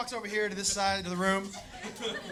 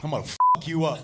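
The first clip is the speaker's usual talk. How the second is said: snapped threat; 8 semitones lower, 3 dB louder, faster than usual. Retold or imitated. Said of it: "something in him just snapped".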